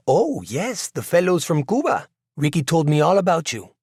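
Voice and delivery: high, swooping, lit-up greeting; delighted recognition. A narrator's reading. Actress recognizes the visiting musicians at the door, delighted. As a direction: greet them high, as your face lights up. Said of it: "her face lights up and she says".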